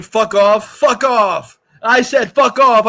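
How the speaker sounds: loud, punchy retelling of an angry line; half-laughing mock outburst; mock angry yell. Quotes Matt Damon's movie line.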